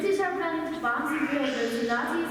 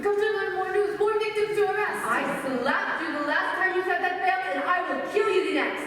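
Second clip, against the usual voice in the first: furious threat; 5 semitones higher than usual. Acted. Madeleine threatening Bert after his accusation, furious and raised. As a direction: threaten her with real fury.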